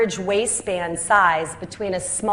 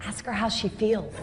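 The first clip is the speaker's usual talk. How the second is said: nudging aside; 7 dB quieter than usual. Retold or imitated. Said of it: "I would nudge them and say".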